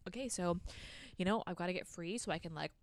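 casual, matter-of-fact retold plan; chill. Man explaining his plan to kill the demon, chill. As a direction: lay it out offhandedly. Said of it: "so chill about it".

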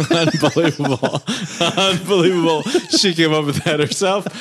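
laughing through the words; can't stop giggling while talking; cracking up mid-line. Real, not acted. Cracking up at friend's joke.

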